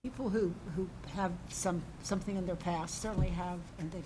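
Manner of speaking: far from the microphone; speaking away from the mic. Real, not acted. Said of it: "Can you move your microphone closer to you".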